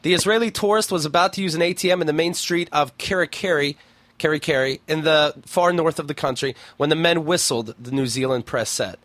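lightly measured article-reading voice; news story read-aloud. Acted. Host reading an odd news story to co-host, news read-aloud.

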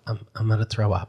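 soft, quick retold complaint; queasy, childlike. Mom to her son, childlike, softly queasy. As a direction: lightly imitate a queasy, helpless mom. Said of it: "looks straight forward like a child".

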